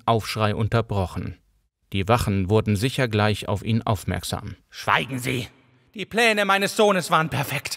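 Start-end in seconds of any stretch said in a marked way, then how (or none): 4.7-7.8 anguished cry. A narrator's reading. Madman cries out about son.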